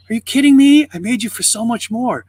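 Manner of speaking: high, loud outburst that then eases in volume; retold indignant protest, pitched well up; incredulous God. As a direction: act out passionate disbelief. God's reaction to losing us.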